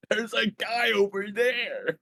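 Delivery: high, slow exaggerated mouthing; silent signing voice. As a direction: spell it out like hand signals. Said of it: "I'm giving you, like, hand signs".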